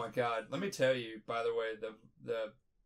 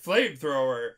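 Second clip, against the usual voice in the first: frantic shooting; 3 semitones higher, 7 dB louder than usual. Retold or imitated. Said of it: "you're just like".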